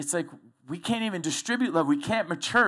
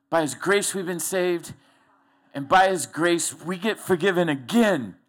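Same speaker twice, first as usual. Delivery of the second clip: stepped away and preaching it out, louder; preached louder; 4 dB louder than usual. Shown as a demonstration. Preacher repeating the verse to the congregation, preaching louder. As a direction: proclaim the line like from the pulpit. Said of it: "I preach over here".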